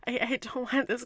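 normal talking voice

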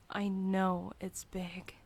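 ordinary delivery

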